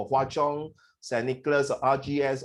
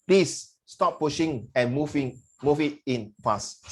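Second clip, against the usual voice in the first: slow translation reading; slower than usual. Shown as a demonstration. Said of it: "The actual translation will be".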